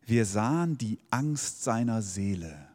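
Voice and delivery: slow, solemn quotation from Luther; solemn Luther Bible reading, slowed; Luther's wording. Shown as a demonstration. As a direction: read it slowly like an old Bible verse. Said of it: "Bei Luther steht es so".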